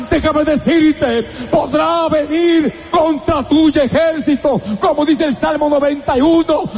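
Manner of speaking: rising, ringing sermon voice; fervent preaching. Acted. Preacher urging the congregation to trust God, fervent. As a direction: preach it out to the faithful.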